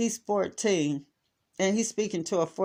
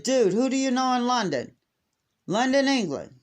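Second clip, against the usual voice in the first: exasperated demand; 7 semitones higher than usual. Retold or imitated. Aunt confronting nephew again.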